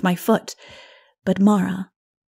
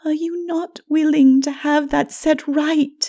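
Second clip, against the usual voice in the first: much higher, louder, urgent plea; pleading Mara; 9 semitones higher, 6 dB louder than usual. A narrator's reading. Mara urges Lilith to let it be set right, urgent. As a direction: press her to accept.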